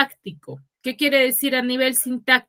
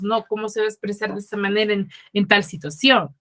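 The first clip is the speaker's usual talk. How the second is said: mock horrified; faster than usual. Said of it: "nos horrorizamos".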